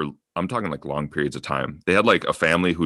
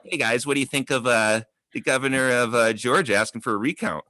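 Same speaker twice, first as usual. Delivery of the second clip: father-in-law voice; 6 semitones higher than usual. Retold or imitated. Acting out father-in-law at dinner.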